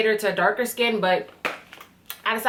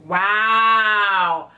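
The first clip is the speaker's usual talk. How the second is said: a loud, awed wow; 5 dB louder than usual. Real, not acted. Vlogger amazed at the shimmering bottle, loud awed wow. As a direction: gasp it out in awe.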